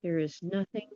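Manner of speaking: unhurried meditation voice with long pauses; guided meditation. Acted. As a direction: guide listeners gently into relaxation, phrase by phrase. Leads a guided relaxation.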